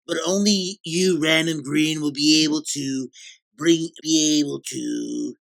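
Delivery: losing the thread mid-sentence; mock-presidential rambling that peters out; incoherent. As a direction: stumble into repeats and leave it unfinished. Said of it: "you sound a little incoherent to-, towards the end there".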